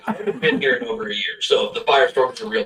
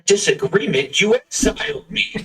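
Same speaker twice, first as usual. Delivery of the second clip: incredulous; 11 semitones higher than usual. Acted. Son incredulous at father.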